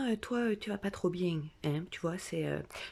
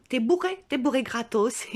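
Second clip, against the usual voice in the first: much higher and louder, amused; loud delighted irony; gleeful joke; 5 semitones higher, 6 dB louder than usual. Acted. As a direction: crow it like a great deal. Joking about being drunk for free.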